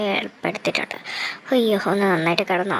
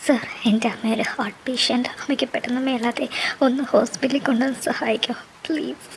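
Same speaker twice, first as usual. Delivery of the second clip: crying plea. Acted. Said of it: "നീ ഇങ്ങനെ കരയണ്ട".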